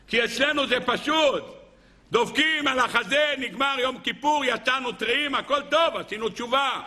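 high, lively mock satisfaction; breezy mockery. Preacher mocking those who think repentance is simple, breezy. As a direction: pitch it up, as if it's all so easy.

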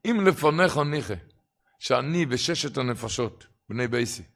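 plea building from ordinary voice to high, loud cry; retold prayer, rising into an impassioned call; crying out to God. Poor hungry plumber addressing God before Shabbat, crying out with growing force. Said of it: "וצעק".

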